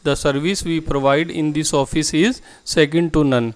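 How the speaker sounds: very slow and clearly spaced, word by word; slow model sentence. Shown as a demonstration. Teacher to Hindi-speaking students, modelling the English sentence slowly. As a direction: spell the sentence out slowly for learners. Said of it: "आप इसको English में बोलते हैं".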